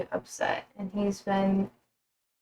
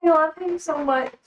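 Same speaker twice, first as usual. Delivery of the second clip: higher, affectionate cooing; gushing pet talk; 5 semitones higher, slower than usual. Real, not acted. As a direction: gush over a beloved pet. Gushing over her pet.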